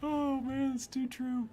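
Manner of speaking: high voice left over from laughter; laughing. Real, not acted. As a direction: still tickled, catching your breath. Recovering from laughing at joke.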